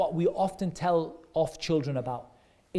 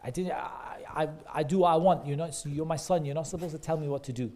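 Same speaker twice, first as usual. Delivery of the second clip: mock angry dad; faster than usual. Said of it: "if he gets angry and he's like".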